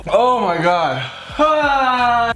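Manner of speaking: gasping cry of burning pain; high pained outcry; mouth burning from spicy food. Real, not acted. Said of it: "your mouth is on fire".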